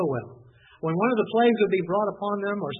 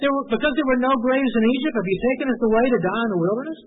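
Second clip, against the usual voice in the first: raised, mocking complaint; sarcastic; 5 semitones higher, 6 dB louder, faster than usual. Israelites complaining to Moses, sarcastic. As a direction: throw the question back bitterly. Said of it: "the sarcasm is there".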